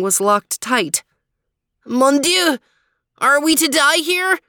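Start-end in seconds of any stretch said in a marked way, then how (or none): 1.9-4.4 much higher, louder despairing wail. Acted. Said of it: "wailed Max".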